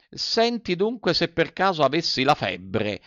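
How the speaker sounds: put-on a scared little wooden boy pleading for help; Pinocchio, frightened puppet. A narrator's reading. Pinocchio voiced high. (voce acuta e spaventata del burattino)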